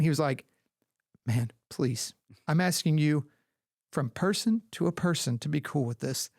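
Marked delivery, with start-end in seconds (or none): 1.2-6.3 halting, earnest appeal with pauses; imitated sincere plea. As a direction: plead person to person, mock-solemn. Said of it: "it was so sincere".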